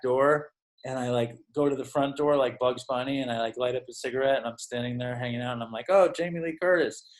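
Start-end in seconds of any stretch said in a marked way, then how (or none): 5.9-7.1 a mock-surprised "Oh", pitched up; fake surprise. To Jamie Lee Curtis outside the deli, mock surprise. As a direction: act like you just noticed a celebrity. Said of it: "acting like I didn't realize".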